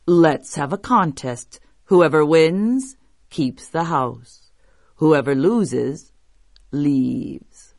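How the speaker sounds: slow, deliberate big creature; monster voice. Acted. Biggest monster proposing a contest, slow monster voice. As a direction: lay out the challenge slowly as a monster. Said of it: "said the biggest monster".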